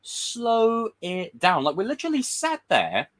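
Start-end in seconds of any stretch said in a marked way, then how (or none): 0.0-1.6 overwhelmed. Retold or imitated. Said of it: "I'm like".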